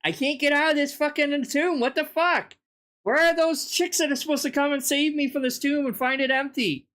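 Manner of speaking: a lightly voiced Jesus straining at the stone; mock Jesus groaning that the stone won't budge; whiny trapped Jesus. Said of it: "He's like".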